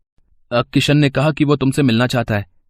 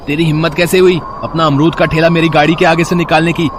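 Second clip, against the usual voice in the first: arrogant threat. Acted. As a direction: threaten the vendor from above. Rich boy bullying a cart vendor.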